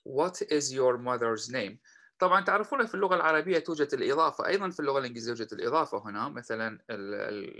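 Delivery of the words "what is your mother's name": slow and clear; slow model question. Shown as a demonstration. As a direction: say it slowly for learners. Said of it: "هنا السؤال الأول". (نطق بطيء وواضح)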